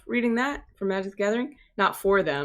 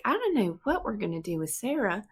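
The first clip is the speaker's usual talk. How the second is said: exasperated mom voice; 2 semitones higher, 4 dB quieter than usual. Retold or imitated. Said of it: "She'd be like".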